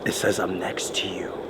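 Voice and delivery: low, hushed repetition; softly reading out the message; quiet awed. Real, not acted. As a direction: murmur it, unsettled. Repeats spirit box words, frightened.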